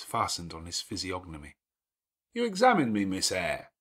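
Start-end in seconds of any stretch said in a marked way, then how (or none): 2.3-3.7 louder, commanding gentleman's voice; a lordly host giving orders at ease; gruff master of the house. Acted. Rochester catches her gaze.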